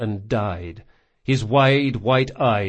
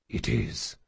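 soft, voiceless whisper; just breathe the answer; 4 semitones lower, 8 dB quieter than usual. Acted. Jean answers his dying friend in a voiceless whisper. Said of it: "whispered Jean".

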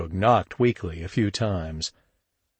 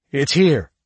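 high, louder, urgent false claim; lying; 5 semitones higher, 6 dB louder than usual. A narrator's reading. Shug misleading the gangsters about the floor, lying. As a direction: blurt out a lie to stall them. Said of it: "lied Shug".

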